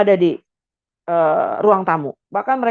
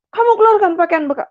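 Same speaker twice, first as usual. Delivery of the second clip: high, louder barked command; angry father ordering; 11 semitones higher, 3 dB louder than usual. Retold or imitated. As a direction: order her out harshly. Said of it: "Tiba-tiba papa saya". (perintah ayah dengan marah)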